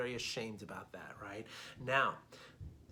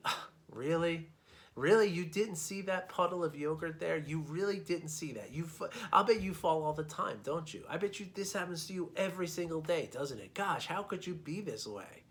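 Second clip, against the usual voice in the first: scolding; 4 semitones higher than usual. Pretend. Scornful passerby mocking a stranger who slipped, contemptuous. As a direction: sneer at them for falling. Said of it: "you say something like".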